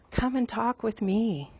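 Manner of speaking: "Come and talk with me" slow and soft, drawn out gently; tender invitation. Shown as a demonstration. God invites his people to talk, slow and tender. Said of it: "God is saying".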